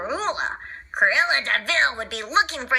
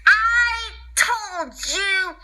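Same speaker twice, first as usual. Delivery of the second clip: mock shout; 4 semitones higher, much slower than usual. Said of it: "she shouted at them".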